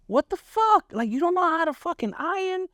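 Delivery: high, furious yelling at his wife; angry outburst. Retold or imitated. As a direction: blow up in a rage over the shirt. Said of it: "I lost my shit".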